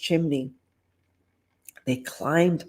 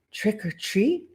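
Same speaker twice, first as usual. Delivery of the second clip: hopeful; 4 semitones higher, 3 dB quieter than usual. Acted. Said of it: "he said hopefully".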